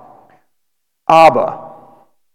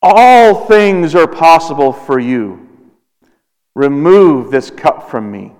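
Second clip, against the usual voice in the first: slow, grieving prayer, stretched out; anguished prayer; much slower than usual. Acted. Preacher voicing Jesus praying in Gethsemane, slow and anguished. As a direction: plead slowly, surrendering. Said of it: "the distress".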